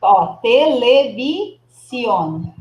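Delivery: televisión drawn out very slowly, each syllable clear; slow model word. Shown as a demonstration. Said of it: "teacher corrects student's word". (televisión bem devagar)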